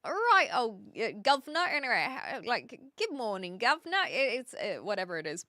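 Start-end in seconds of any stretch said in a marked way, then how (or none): 0.0-1.6 half-hearted Cockney trope, pitched up; attempted Cockney. Streamer recalling the fake British trope, tentative Cockney. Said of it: "what did they say?". 3.0-4.0 stock Cockney greeting, lifting on the last word; attempted Cockney. Streamer showing the fake British trope, mock Cockney. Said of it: "think of the Cockney accent".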